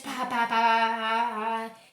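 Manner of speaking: slow, loud, even "pá, pá, pá" beats with no pause; rapid-fire reading. Shown as a demonstration. Teacher mimicking text read without any pause, loud monotone beats. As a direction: hammer out "pá" like nonstop reading. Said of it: "e não ter aquela pausa".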